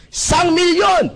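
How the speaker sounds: slow, loud, high hype shout; seminar speaker shouting. Retold or imitated. Seminar speaker hyping the crowd, slow loud shout. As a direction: bellow the big number at the crowd. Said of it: "Nagsisigawan yung mga tao".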